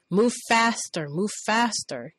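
mild mock boss urging; boss barking orders. Boss hurrying the new girl, mock bark. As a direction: push her to hurry, half-acted. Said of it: "he kept telling me".

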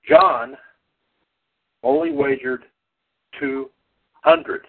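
big dramatic reveal, pitch leaps; booming pumped announcer. Acted. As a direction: hype it like a ring announcer. Dramatic game show score reveal.

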